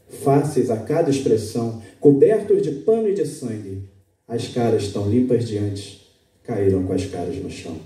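measured poetry reading with long pauses; poem recital. Acted. Reads his own poem aloud. (declamação de poema, pausada e expressiva)

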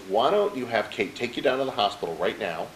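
casual, even-voiced imitation of mom; unruffled retold advice; calm, smooth mother. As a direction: suggest it coolly, as if nothing's wrong. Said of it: "That's the way she said it in her tone of voice".

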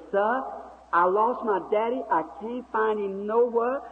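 high imitated Southern girl's voice; high Southern-accented plea, imitated; Southern talk. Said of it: "that Southern talk".

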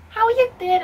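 high, friendly check-in; imitating nice caller. Woman on the phone greeting the vlogger, imitated friendliness. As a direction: chirp it sociably down the phone. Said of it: "she was so nice".

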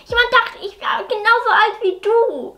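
a hint of a hurt twelve-year-old pleading with Mama; daughter voice.

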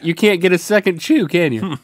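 talking through laughter; giggling question; laughing. Real, not acted. Laughing at sticky bite.

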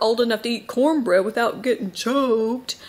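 lightly put-on Southern accent; little Southern accent. Recalling a kids' comeback to "how old are you", in a little Southern accent. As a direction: quote a childhood comeback with a touch of Southern accent. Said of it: "where that little accent came from".

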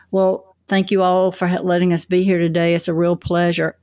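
dull, listless thank-you with no smile; no energy. Shown as a demonstration. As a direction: read the welcome like you'd rather not be there. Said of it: "With that tone".

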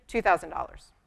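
"two thousand dollars" stated firmly, falling, no hedge; with authority. Shown as a demonstration. Right way to state your rate to a client, "two thousand dollars" with firm authority. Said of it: "you have to say it with authority".

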